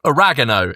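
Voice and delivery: "Oregano" said the American way, stress on the second syllable; "Oregano" in an American accent, stressed on "reg"; American pronunciation. Shown as a demonstration. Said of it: "as the Americans would say".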